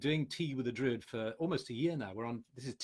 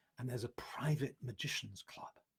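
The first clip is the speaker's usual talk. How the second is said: lowered, quieter voice; 5 dB quieter than usual. Listing what the course offers, reaching the private club: lowered voice. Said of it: "Notice I'm lowering my voice because it's private".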